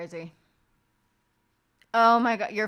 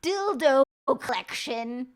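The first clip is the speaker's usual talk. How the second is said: loud, slow blurt with a high, louder last word; very loud announcement; 4 semitones higher, 8 dB louder, slower than usual. Retold or imitated. Sister loudly tells the whole wake her find. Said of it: "she very loudly through the whole way goes".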